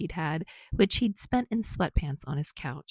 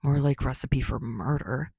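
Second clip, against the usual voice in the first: scolding; 4 semitones lower than usual. Acted. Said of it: "Bakugo scolded".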